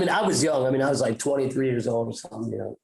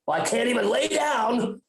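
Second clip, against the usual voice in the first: whiny self-quote; 8 semitones higher than usual. Retold or imitated. Retold frustrated thought.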